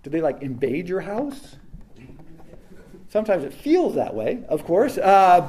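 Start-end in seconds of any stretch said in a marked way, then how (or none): 0.0-1.6 mock alarm. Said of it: "it's like".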